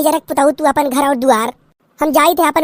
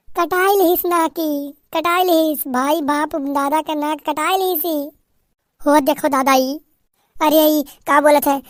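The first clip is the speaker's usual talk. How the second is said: wailing mother-in-law. Acted. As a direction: cry out to the heavens in shame.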